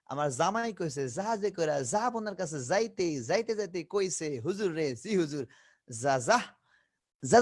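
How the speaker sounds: every জ and য said as a buzzing z; light z sound. Shown as a demonstration. Teacher recites a practice line for the light z. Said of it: "হালকা করে হবে".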